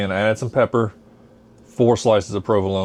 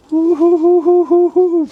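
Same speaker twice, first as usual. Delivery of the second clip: excited whoop; 7 dB louder, slower than usual. Real, not acted. Celebrating bubbling soup.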